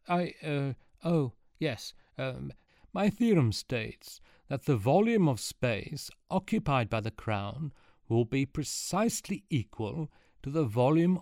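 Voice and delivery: lightly voiced old man, flustered and halting; stammer, then rally like a nervous old sage. Flustered Archimedes rallies before the crowd, lightly voiced old man.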